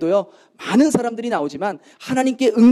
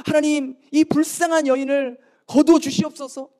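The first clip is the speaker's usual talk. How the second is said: mild retold wailing plea, higher pitch; imitated crying out; 6 semitones higher than usual. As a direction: beg God like a desperate woman. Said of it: "울부짖으면서".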